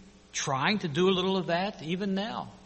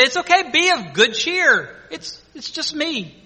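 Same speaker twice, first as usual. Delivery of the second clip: reassuring Jesus; 5 semitones higher, 3 dB louder than usual. Retold or imitated. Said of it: "Jesus who spoke to them and said".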